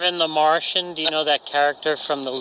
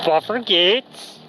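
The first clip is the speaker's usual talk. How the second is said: Elias impression; 2 semitones higher, slower than usual. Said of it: "can you do Elias".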